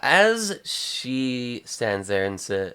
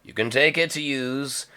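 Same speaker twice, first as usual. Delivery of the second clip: softer, lowered voice; confiding crime lord; 4 semitones lower, 6 dB quieter than usual. Acted. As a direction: offer it quietly, close by. Jabba confides, handing over keys.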